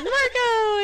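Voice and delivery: calling Marco out high and loud; called Marco. Retold or imitated. Explaining the pool game to her friend, a high loud call. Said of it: "the person says".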